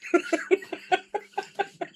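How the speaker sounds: breathy giggle, high; high airy laugh. Real, not acted. Streamer cracking up after her Russian accent, high airy laugh. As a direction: laugh at your own joke.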